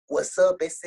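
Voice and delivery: a lightly mocked Califa homie saying hi; Califa Mexican greeting. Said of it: "trying to talk to me like that".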